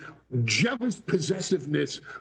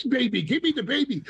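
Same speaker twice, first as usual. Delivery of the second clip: demanding woman; 6 semitones higher, faster than usual. Retold or imitated. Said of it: "She says".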